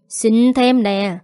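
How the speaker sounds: slow, drawn-out mock of "thêm" with a falling end. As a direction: stretch "thêm" slowly to sneer at him. Boss mocks the plea.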